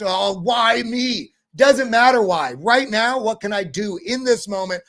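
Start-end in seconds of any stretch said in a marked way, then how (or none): 0.0-1.3 slow, whiny "why me"; mock self-pity, drawn out; sighing woe-is-me. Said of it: "moments of complete just".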